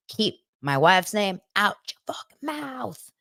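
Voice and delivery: slow, menacing imitation of Will Smith; a hint of an angry Will Smith; mock Will Smith threat. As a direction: growl it out like Will Smith defending his wife. Quoting Will Smith at the slap.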